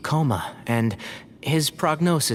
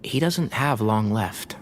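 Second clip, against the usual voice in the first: slow, lower, grave delivery; sombre; 5 semitones lower, slower than usual. Acted. Doctor telling the heir his grandfather will die, sombre. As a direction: break the bad news gently and slowly.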